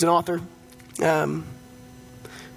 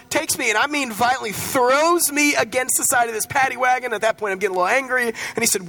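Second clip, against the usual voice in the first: excited retelling; 6 semitones higher than usual. Retold or imitated. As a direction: tell it higher and faster, reliving it. Retelling being thrown by cop.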